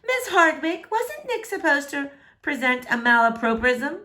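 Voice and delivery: a lightly voiced know-it-all girl; whiny know-it-all. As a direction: whine it up to the teacher. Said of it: "she whines".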